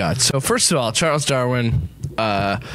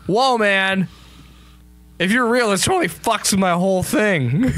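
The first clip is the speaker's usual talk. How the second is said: surprised, much higher stoner dude; 9 semitones higher than usual. Acted. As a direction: whoa it up like a freaked surfer. Darwin voiced as a dude.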